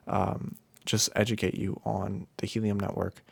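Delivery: sleepy, worn-out delivery; tired. Real, not acted. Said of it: "Sorry if I sound, like, a little tired".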